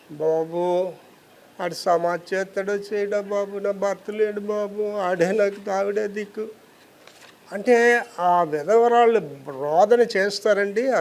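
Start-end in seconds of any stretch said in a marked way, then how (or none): 0.1-6.5 put-on soft, slow voice of a frightened old widow; an old widow telling the preacher of her son, in a soft plea; widow's plea. Lightly voiced grieving old mother.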